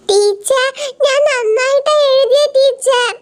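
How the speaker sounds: put-on high, slow drawn-out child plea; pleading schoolkid. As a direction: stretch the words begging the teacher. Student pleads with teacher.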